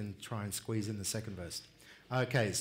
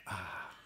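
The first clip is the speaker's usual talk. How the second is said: quieter satisfied ah; a soft ah after a cold drink; soft refreshed ah; 4 semitones lower, 8 dB quieter than usual. Shown as a demonstration. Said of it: "like you just had a nice cold drink".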